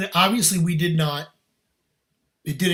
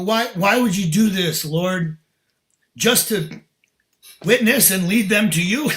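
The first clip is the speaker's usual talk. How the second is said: raised, exasperated questioning; retold complaint to God; 3 semitones higher, 5 dB louder than usual. Man questions the Lord over his loss, exasperated. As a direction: protest to the Lord, pushing louder.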